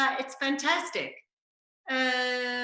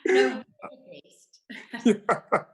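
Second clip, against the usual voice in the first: shouting catchphrase; 3 semitones lower, 5 dB louder than usual. Retold or imitated. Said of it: "famous for shouting".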